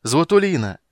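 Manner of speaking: loud calls across the yard; calling out loud. Acted. Wife calling to her returning husband, loud joyful shout. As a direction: call his name, shouting with joy. Woman calling out running from gate.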